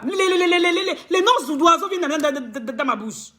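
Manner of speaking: stuttering, words tripping out; real stammer trailing off. Real, not acted. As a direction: stammer over the words half laughing. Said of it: "Je bégaye même déjà".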